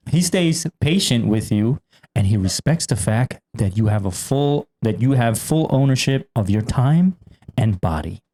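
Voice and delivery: slow, measured reading; unhurried host reading a numbered point; list item read aloud. Real, not acted. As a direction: read it out deliberately with pauses between phrases. Reads out item nine.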